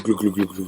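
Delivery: throaty gluk gluk like a lion's growl; rumbling motorbike-like gluk noises; guttural growl imitation. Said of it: "growls are so guttural".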